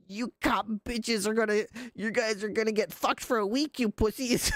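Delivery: voz alta y burlona de troll del chat; mocking chatter. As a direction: imita a un troll agresivo, agudo. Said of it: "came into my stream and was like".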